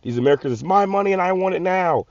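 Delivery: high, squeaky mock of a greedy whiner; mocking entitled American. Vlogger mocking Americans demanding their frozen money, high whiny voice. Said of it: "People say".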